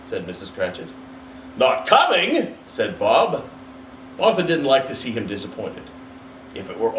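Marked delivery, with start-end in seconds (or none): 1.6-2.6 high, rising disbelief; Bob's face falls in his voice; father crestfallen, higher; dismayed surprise. Acted. Bob dismayed.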